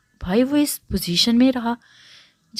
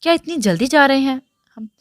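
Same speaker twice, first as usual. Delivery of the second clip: mildly surprised, raised narrator's voice; surprised question; 5 semitones higher, 5 dB louder than usual. A narrator's reading. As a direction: ask with a touch of astonishment. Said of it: "अमाद ने हैरान होते पूछा".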